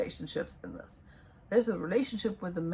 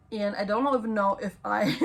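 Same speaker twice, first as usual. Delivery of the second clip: laughing; 2 semitones higher than usual. Real, not acted. Laughing at herself.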